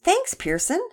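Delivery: high, lifted, grateful thanks; brightened thanks. A narrator's reading. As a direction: lift your voice in relieved gratitude. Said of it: "Shane's face brightened".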